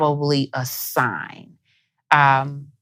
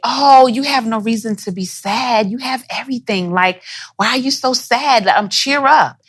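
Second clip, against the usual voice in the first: higher, brushing-off parent voice, mildly mocked; a parent waving away a child's sadness; lightly voiced impatient parent, cheer up; dismissive parent; 6 semitones higher than usual.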